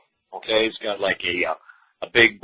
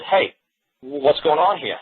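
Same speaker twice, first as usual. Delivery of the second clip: mock Picasso; 4 semitones higher, slower than usual. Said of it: "Picasso's gonna come out from the grave and said".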